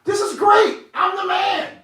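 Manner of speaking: loud, high, crowing boast; a vain man bragging loudly about his invitation; gloating Haman. Acted. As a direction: strut and crow like a self-satisfied schemer.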